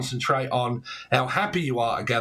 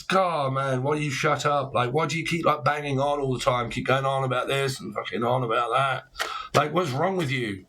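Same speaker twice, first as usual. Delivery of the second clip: fed-up bloke. Retold or imitated. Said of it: "give it from a male's perspective".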